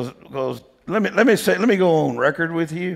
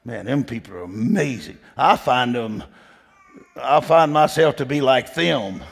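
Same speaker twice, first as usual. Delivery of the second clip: normal talking voice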